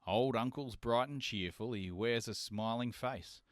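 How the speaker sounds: measured rhythmic reading of a bush ballad; poem recital. Acted. Reading Lawson's Andy's Return to listeners, rhythmic poem recital.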